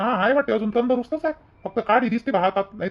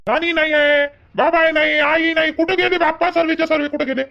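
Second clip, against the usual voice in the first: insistent questioning; 5 semitones higher than usual. Acted. Grandson finds all family missing.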